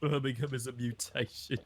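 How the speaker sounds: lightly put-on Birmingham accent; playful copy of a Brummie voice; mock Birmingham accent. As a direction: echo it in jokey Brummie. Echoes the mocked Birmingham accent.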